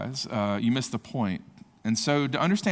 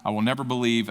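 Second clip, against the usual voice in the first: emphatic declaration; 2 semitones higher than usual. Acted. Preacher reads Thomas's vow to the congregation, emphatic. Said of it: "emphatic statement".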